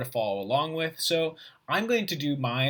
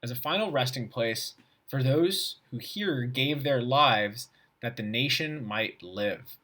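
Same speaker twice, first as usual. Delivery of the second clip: reading aloud; slower than usual. Shown as a demonstration. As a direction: read it out like a formal text.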